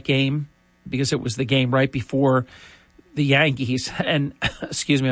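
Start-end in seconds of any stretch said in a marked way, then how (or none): 4.0-5.1 coughing, choking on a drink mid-sentence; clearing a choke while talking. Real, not acted. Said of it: "I'm choking".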